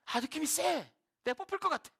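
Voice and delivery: high-pitched mock dread; uneasy hunch. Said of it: "느낌이 쎄한 거야". (불길함을 느낀 요나 흉내, 높은 목소리)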